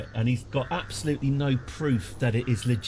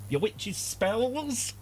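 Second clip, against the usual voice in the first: slow drawl; 9 semitones higher, 3 dB quieter, much slower than usual. Acted. Drawn out.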